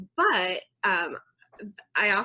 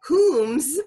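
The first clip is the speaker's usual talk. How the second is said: posh lady voice; 6 semitones higher, 7 dB louder than usual. Pretend. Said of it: "I wanted to be like".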